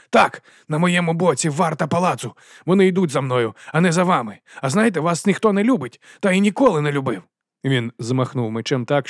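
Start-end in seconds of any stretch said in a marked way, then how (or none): 0.1-7.2 higher, louder spiteful taunt; gloating Wonse. A narrator's reading. Вонс до Патриція, зловтішно. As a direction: rub it in.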